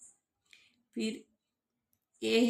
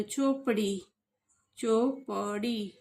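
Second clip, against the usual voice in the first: slow reading; slower than usual. Shown as a demonstration. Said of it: "ऐसे आपको पढ़ना है".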